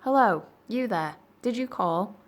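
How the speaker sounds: calling out loud into the dark; shouting. Acted. Andrew calls up to the church tower, shouting. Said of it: "Andrew shouted".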